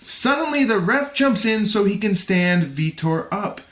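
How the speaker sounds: measured, clearly articulated read; fight recap narration. A narrator's reading. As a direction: narrate the bout like a documentary. Reads scripted fight recap.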